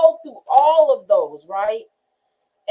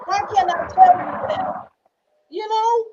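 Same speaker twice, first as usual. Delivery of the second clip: anguished; 8 semitones higher than usual. Real, not acted. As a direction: cry out the question. Anguished question about abuse.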